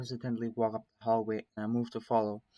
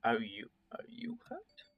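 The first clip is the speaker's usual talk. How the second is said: slow worried whisper; 5 dB quieter, slower than usual. Acted. Carl whispering to the narrator about his foot. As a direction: whisper the question gently.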